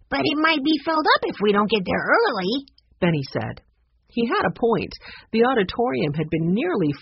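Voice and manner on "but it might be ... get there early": put-on higher voice of a young boy pleading his case; boy worried about missing out; eager young boy. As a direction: sound like a little kid who wants to hurry. Benny, young boy, urging.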